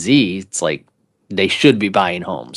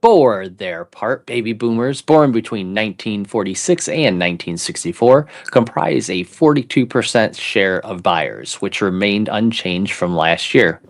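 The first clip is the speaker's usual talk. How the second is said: measured read-aloud in an announcer's delivery. Pretend. Co-host reads a housing article paragraph aloud, announcer voice. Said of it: "I'll read it with my announcer voice".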